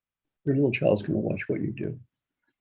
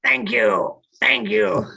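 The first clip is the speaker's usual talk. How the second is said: loud, bright thank you rising higher; grateful thank you; 9 semitones higher, 5 dB louder, much slower than usual. Shown as a demonstration. Coach showing how to thank a backseat driver, bright and loud. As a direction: model a cheerful thanks. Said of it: "you're gonna go just like this".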